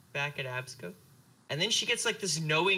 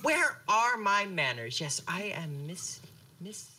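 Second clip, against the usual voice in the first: flustered mom. Acted.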